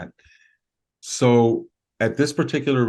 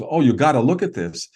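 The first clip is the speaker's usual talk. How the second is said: mildly excited imitation, pitched up; retold excitement; 4 semitones higher, 3 dB louder than usual. Friend urging others to the camera, mildly excited retelling. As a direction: act out a friend's eager urging, lightly. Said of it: "he was real excited".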